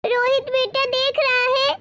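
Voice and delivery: put-on offended old woman appealing to her grandson; scolding old mother-in-law. (डाँटती हुई बूढ़ी सास)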